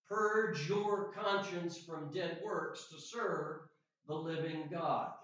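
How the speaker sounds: slow, emphatic verse reading with weighty pauses; scripture reading. Acted. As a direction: proclaim the verse in measured, drawn-out phrases. Reads scripture aloud.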